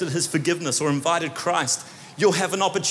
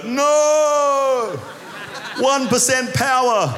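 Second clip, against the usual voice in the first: mock panic; 7 semitones higher, much slower than usual. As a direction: yelp at the dying battery.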